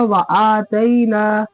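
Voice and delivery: व आतैना with brief wa, then long held aa; quick short wa. Shown as a demonstration. Teacher modelling the reading, short व in व आतैना. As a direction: release व quickly and stretch the आ of आतैना. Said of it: "तो कैसे होगा".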